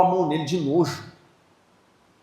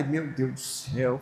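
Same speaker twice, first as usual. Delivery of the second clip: embarrassed sigh; 3 semitones lower, 8 dB quieter, slower than usual. Retold or imitated. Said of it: "voltei pra trás e falei".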